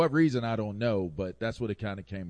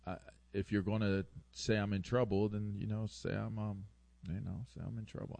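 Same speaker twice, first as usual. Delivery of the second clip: mock resigned kid, stammering and fading softer; explaining out of trouble; 5 dB quieter than usual. Cornered kid conceding to parents, quietly resigned. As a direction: give up on the excuse, trailing off. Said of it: "That's how I sounded when I was trying to explain myself out of trouble".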